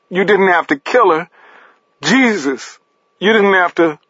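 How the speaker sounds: high, anguished wail; grief-stricken accusation, pitched right up; yowling. A narrator's reading. Paris head in hands over Nina, yowling.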